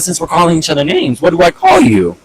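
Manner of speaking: sarcastic challenge. Retold or imitated. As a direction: needle him with the question. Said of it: "That's why I said".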